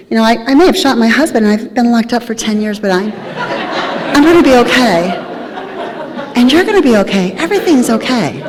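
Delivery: laughing through a lightly voiced cheerful Sheila; mock serene reassurance. Teller mimicking inmate's breezy reassurance, half laughing. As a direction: reassure everyone while chuckling at the irony. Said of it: "everything was rainbows and unicorns".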